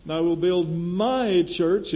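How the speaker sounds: "my" lifted and stressed; weight on "my" in "And I will build my church"; "my" stressed, rising tune. Shown as a demonstration. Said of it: "it's the Lord's church".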